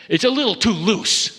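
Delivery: mock the doubter, unconvinced; sceptical doubt. A sceptic folding arms at love, mock doubtful. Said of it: "stand back and fold their arms and say".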